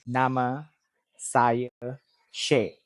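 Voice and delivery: "Nama saya Shay" word by word, evenly pitched; separate, unbending "Nama", "saya", "Shay"; level mid tone. Shown as a demonstration. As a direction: keep "Nama saya Shay" free of rises and falls. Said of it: "There's no going up, going down".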